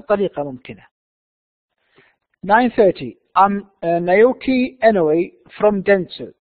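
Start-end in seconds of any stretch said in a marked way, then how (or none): 2.5-6.3 slow, deliberate read-out; careful model reading. Shown as a demonstration. Teacher reading the visitor's introduction to students, slow careful reading. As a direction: pronounce it clearly for learners. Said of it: "listen carefully and see how words are pronounced".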